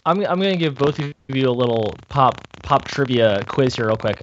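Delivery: glitchy robotic connection; choppy robot-like audio. Real, not acted. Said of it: "you sound like a robot right now".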